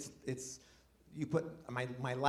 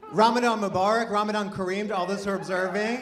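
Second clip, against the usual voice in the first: bright, raised holiday greeting called out; loud festive greeting; 5 semitones higher, 6 dB louder than usual. Real, not acted. Comic greets the crowd with a loud festive holiday greeting. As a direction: call the greeting out to the whole room.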